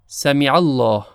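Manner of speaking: سمع الله with a thin, light س; light seen. Shown as a demonstration. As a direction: keep the س in سمع light, not emphatic. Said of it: "حرف سین تلفظش با صاد کاملاً متفاوت هست".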